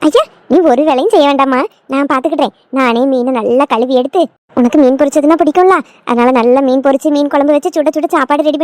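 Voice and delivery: lightly voiced older woman, fussing fondly; doting mother-in-law. Doting mother-in-law takes over chores.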